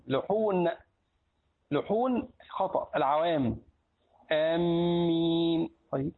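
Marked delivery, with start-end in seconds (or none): 4.3-5.7 آمين drawn out slowly with a single mim; slow ameen. Shown as a demonstration. Closing the lesson on the correct آمين. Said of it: "وهذه من لحون العوام".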